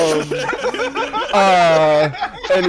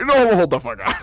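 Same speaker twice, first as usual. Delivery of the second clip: lawyer mode; 2 semitones higher than usual. Retold or imitated. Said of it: "like, full lawyer".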